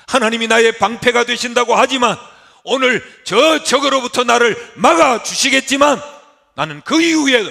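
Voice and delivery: 높고 크게 외치는 하소연; 하나님께 따지듯 힘껏 부르짖어라. Acted. 아브라함이 하나님께 항변. (부르짖는 항변)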